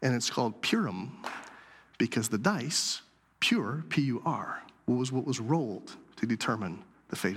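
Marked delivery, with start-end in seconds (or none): none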